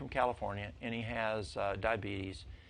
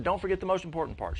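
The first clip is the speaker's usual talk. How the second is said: raised, higher-pitched call; calling after someone; 7 semitones higher, 5 dB louder than usual. Retold or imitated. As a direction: call after her before she gets out the door. Repeats the call to departing customer.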